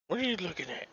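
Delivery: high, soft voice for Abby; playful question. Real, not acted. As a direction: ask it softly, way up high.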